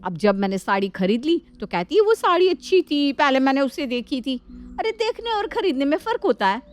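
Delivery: a touch of sneering at the younger one; indignant elder sister-in-law. Acted. Elder sister-in-law complains to Nandini about Shalu, scornful.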